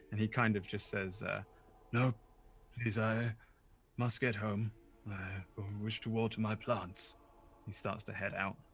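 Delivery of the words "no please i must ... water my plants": put-on bewildered, confused, very old man's voice. Voicing a confused old man who insists on going home: confused old man voice. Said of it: "just this super old guy who's a little bit confused".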